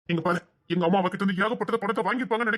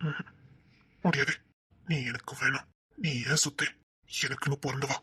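low menace; 8 semitones lower, 5 dB quieter, slower than usual. Acted. Man menacing girl.

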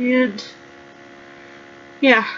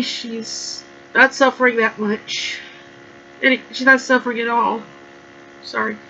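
holding back tears; 3 dB quieter than usual. Real, not acted. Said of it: "still getting over the loss of her".

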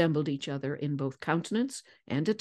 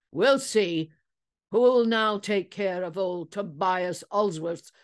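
put-on old whaler; 3 semitones higher than usual. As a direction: play a blustering old seaman, hurt pride. Old whaler Ulsworth speaking.

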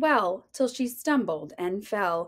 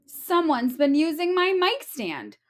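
Mama Bear voice; 5 semitones higher than usual. Acted. Mama Bear finds mic stand.

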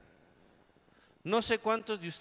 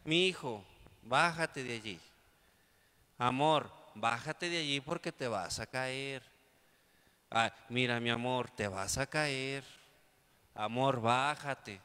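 a hint of a pleading young mother; 4 semitones lower than usual. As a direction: beg the child gently. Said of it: "la mamá le decía".

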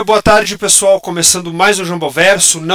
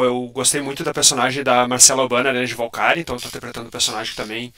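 robot voice; 2 semitones lower than usual. Real, not acted. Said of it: "O pessoal tá falando da minha voz de robozão".

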